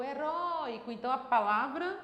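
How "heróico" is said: heróico called out with a drawn-out RÓI; heróico stretched on its tonic syllable RÓI; calling the word. Shown as a demonstration. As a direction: hold the stressed RÓI in heróico like a call. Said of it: "Vamos chamar a palavra?".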